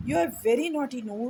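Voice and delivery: a sharp mother's scold, slow and pointed. Acted. Mother scolding her naughty son, sharp and slow. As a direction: tell him off like a cross mum. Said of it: "said his mother sharply".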